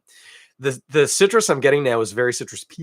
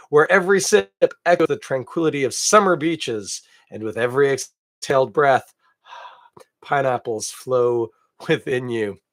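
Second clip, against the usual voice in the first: dreamy label read. Acted. Rereading flowery label text.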